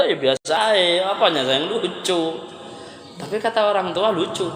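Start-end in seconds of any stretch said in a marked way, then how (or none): 0.0-2.4 unimpressed youth. Retold or imitated. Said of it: "Kata anak muda".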